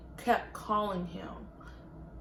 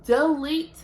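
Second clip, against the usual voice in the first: angry demands; 3 semitones higher than usual. Retold or imitated. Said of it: "I was like".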